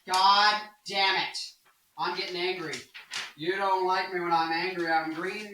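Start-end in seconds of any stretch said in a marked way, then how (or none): 0.1-1.4 mock anger.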